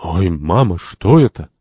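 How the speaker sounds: mild startled gasp of a question; a touch of fright; frightened. Acted. Santori spots the man on the bicycle, frightened. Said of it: "Сантори с испугом".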